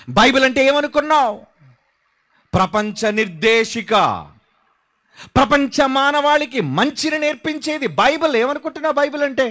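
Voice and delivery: high, ringing challenge from the pulpit; forceful preaching. Acted. Preacher challenging those who belittle the Bible, forceful. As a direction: throw the question at a doubter, voice lifted.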